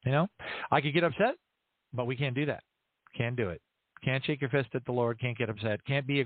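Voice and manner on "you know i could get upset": normal talking voice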